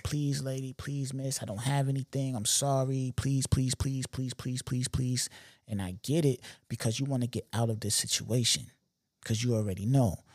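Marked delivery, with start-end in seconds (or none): 0.0-5.3 softer, imitating a desperate plea; lightly acted pleading; mock begging. Trapped robber begging the store lady, softer mock pleading. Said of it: "he's begging".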